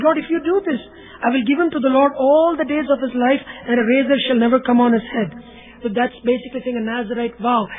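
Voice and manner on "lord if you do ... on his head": Hannah's impassioned vow, preached loud; fervent vow. Retold or imitated. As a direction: pledge it with rising fervour.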